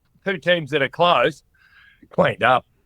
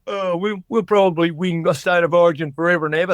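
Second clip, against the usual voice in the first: mock arrogance. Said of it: "arrogant attitude ... going".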